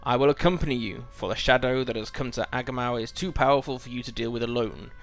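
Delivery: lightly voiced wise old wizard, grave; a hint of a stern old wizard; wizard dialogue read aloud. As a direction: read it like a solemn wizard giving warning. Reads quest text as the wizard.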